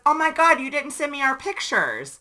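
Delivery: half-scold him, half-giggle; mock excited girl. Stranger scolding Patrick about unsent photos, giggling gush.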